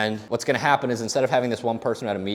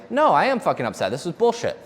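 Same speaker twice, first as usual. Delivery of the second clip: higher-pitched, mildly heated retort; mock angry customer; 6 semitones higher than usual. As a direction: play the customer snapping back, a touch indignant. Imagined angry customer pushing back.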